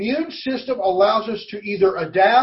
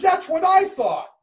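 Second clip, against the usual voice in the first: excited driver; 10 semitones higher than usual. Retold or imitated. Retold Uber driver's relief.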